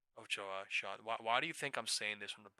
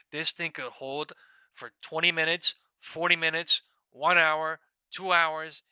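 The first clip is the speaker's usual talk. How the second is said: louder, insistent retelling of the call; loud emphatic quote; 6 semitones higher, 12 dB louder, slower than usual. Retold or imitated. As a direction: hammer home what he called back then. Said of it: "I said in that exact moment".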